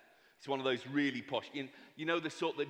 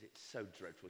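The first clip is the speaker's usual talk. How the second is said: mock lament; 8 semitones lower, 15 dB quieter than usual. Husband laments being poor.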